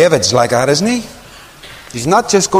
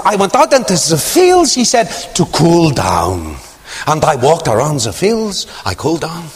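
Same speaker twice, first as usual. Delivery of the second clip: broken English; 2 semitones higher than usual. Retold or imitated. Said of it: "I'm not mocking his accent".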